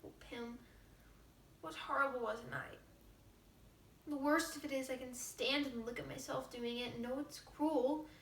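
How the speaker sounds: soft, troubled confession to father; pleading young girl. Acted. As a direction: plead with father, close to tears.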